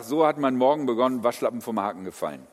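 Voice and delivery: fast, breezy posting voice; social media post voice. Retold or imitated. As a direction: rattle it off like a post caption. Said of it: "poste es und sag".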